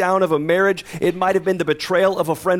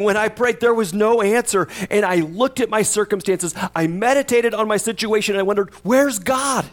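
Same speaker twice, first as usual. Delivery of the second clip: questioning psalmist; 4 semitones higher than usual. Retold or imitated. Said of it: "He's saying".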